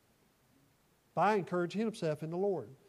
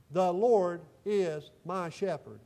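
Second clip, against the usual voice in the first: slow recited verse; 4 dB louder, much slower than usual. Shown as a demonstration. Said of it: "Say that with me if you would".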